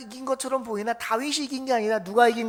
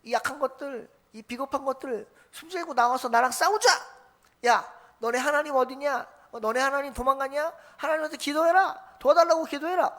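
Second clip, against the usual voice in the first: mocking Goliath; 2 semitones higher than usual. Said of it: "막 소리를 칩니다".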